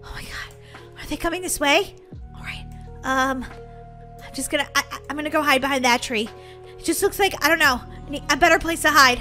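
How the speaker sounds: soft, nervous self-talk; hushed, hesitant make-believe worry; hushed fear. Pretend. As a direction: keep it down, hiding from danger. Hiding from wolves.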